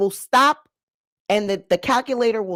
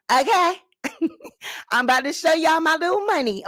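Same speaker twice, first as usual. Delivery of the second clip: giggly; 6 semitones higher than usual. Real, not acted. Giggling about her money.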